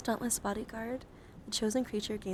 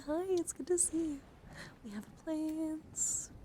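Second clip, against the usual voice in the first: cheery greeting; 8 semitones higher than usual. Real, not acted. Greets viewer, presents next card.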